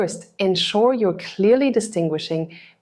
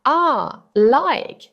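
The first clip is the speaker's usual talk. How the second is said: hesitant filler sounds, pitched up; filler words; 7 semitones higher, 4 dB louder, much slower than usual. Shown as a demonstration. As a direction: drop the fillers like a nervous speaker. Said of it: "filler words like um".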